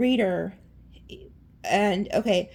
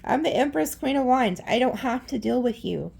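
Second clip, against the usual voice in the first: haughty Empress; 4 semitones higher than usual. Pretend. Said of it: "You're like".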